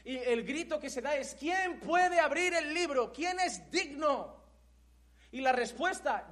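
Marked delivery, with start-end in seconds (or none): 1.4-4.4 slow anguished cry. Acted. John's desperate cry in vision.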